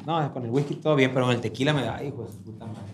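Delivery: slurring, tipsy and trailing off. Real, not acted. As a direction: talk like you've had tequila. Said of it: "Primer podcast que ando pedo".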